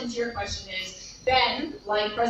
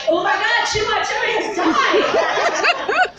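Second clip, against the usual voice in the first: hammed-up gasping dimwit, higher and louder, slow; mock dumb person; 10 semitones higher, 7 dB louder, slower than usual. Mocking hoax believers, overblown dumb gasp. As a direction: play the gullible fool falling for the hoax.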